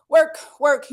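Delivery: loud push of encouragement; coach shouting. Real, not acted. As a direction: bark it to drive them on. Coach pushing class on.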